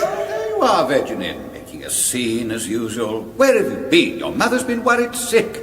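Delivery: a lightly voiced fussing mother; sounds like his mother. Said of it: "My mother?".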